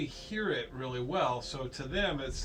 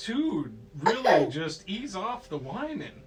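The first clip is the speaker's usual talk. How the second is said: raised, pleading exasperated voice; acting out a fed-up uncle; higher, exasperated telling-off; mock exasperation; 4 semitones higher, 5 dB louder than usual. Uncle scolds whiny Luke in story.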